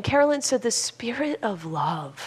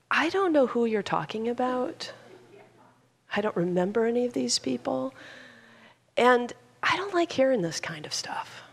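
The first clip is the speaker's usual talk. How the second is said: put-on higher, hesitant old woman, long pauses; frail elderly woman; 4 semitones higher, 3 dB quieter than usual. Frail mother answering her gossiping daughter, frail and halting. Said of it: "the frail elderly woman said".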